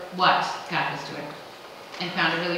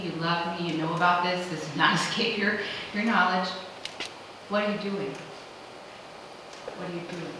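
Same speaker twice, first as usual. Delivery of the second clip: quiet prayer; 3 semitones lower, 5 dB quieter than usual. Retold or imitated. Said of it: "it will be".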